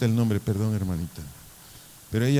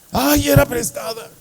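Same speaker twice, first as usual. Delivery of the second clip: high, loud mock wail; stressed; 13 semitones higher, 5 dB louder than usual. Mocking the stressed pupil who lost the axe, panicked wail. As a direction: whine it like a panicking baby. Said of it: "¿Quién estaba estresado?".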